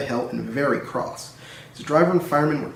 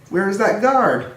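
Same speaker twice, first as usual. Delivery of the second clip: anxious; 6 semitones higher, 4 dB louder, slower than usual. A narrator's reading. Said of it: "Edward was getting anxious".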